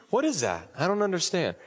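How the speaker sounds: mildly hammed-up disbelief; baffled reaction. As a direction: act puzzled at hearing your own voice. Acted reaction to own voicemail.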